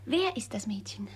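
soft voiceless question; curious whisper. Acted. Sister asks brother about his sweetheart, whispering. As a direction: whisper it conspiratorially.

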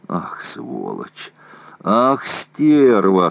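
slow, drawn-out groans of pain; groaning. A narrator's reading. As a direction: moan the curses through a toothache. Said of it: "стонал Орлов".

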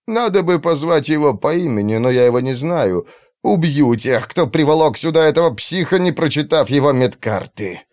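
seething through teeth; gritted teeth anger. Acted. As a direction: hiss out the anger. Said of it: "скрипнул зубами от злости". (злость сквозь зубы)

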